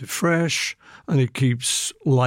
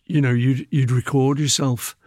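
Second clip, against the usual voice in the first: ordinary talk, nothing marked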